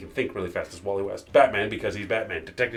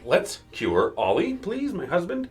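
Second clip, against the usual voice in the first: slow, then a much higher pleading plea; pleading wife; 8 semitones higher, slower than usual. Retold or imitated. Black Canary begging the heroes to cure her husband, mock plea. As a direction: beg them to save her husband first. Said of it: "Black Canary is like".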